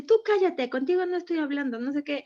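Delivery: mock a child telling a lady to shut up; imitating her son. Son snaps at a stranger. (imitando a su hijo grosero, un poco más agudo)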